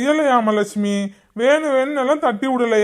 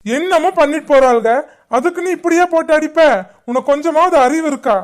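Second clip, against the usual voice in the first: angry scolding; 3 semitones higher, 4 dB louder than usual. Acted. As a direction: scold her for hitting the kids. Father scolds wife for beating.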